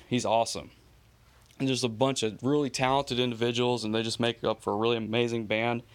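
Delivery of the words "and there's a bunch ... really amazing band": breathless from talking fast; out of breath. Real, not acted. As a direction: run out of air between phrases. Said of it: "I sound like I'm fat breathing a lot".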